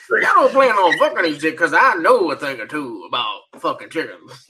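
hammed-up film line with a laugh at the end; imitated movie character. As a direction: quote the movie guy, breaking into laughter. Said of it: "the guy's like".

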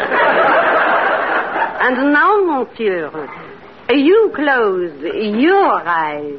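low and slow, lulling; slow seductive hypnotic voice. Acted. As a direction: lull him under a spell.

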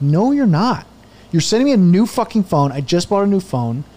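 mock outraged customer; indignant refusal. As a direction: re-enact putting your foot down with customer service. Retelling his argument with phone company.

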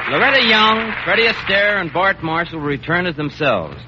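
bright, upbeat show announcer; radio announcer. Acted. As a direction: announce it to the listeners. Announcer introduces the stars.

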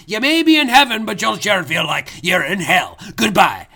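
furious Scottish ghost, threatening; angry drunk ghost. Acted. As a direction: snarl threats like a mean drunk. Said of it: "he was amped up".

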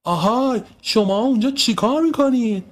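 very high challenge from a window; high, scolding "hey you" call; calling out sharply. Acted. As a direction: call down to children caught out. Woman calls out from window.

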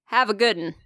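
lightly imitated Southern mumble; Southern mutter. Woman quoting a stranger leaving the elevator, Southern mutter. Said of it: "he said it super fucking Southern and really muttered".

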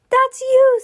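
loud, high burst of excitement; thrilled friend calling out; excited exclamation. A narrator's reading. Friends excitedly tell Judy she won.

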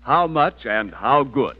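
upbeat announcer selling meat; 1940s radio commercial voice; ad read. Acted. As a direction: sell it like a radio ad. Sponsor ad read.

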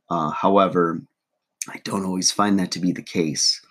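hoarse morning voice; rough throat, first words of the day; frog in throat. Real, not acted. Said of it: "sorry about the frog in my throat".

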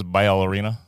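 "ballerina" said as "bye-all-erina"; imitated odd pronunciation. Guest mimics adman, "ballerina" as "bye-all-erina". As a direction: stretch the start of "ballerina" to "bye-ah". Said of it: "You notice he says ballerina?".

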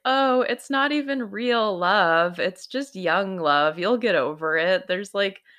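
lightly voiced mother waving away his heartbreak; dismissive mom. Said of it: "his mom says the worst possible thing ever".

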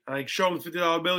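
ordinary talk

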